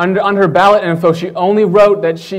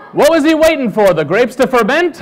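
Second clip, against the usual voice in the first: raised-pitch comic disbelief; mock incredulous; 5 semitones higher than usual. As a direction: demand an answer in exasperated disbelief. Mock outrage at slow officer.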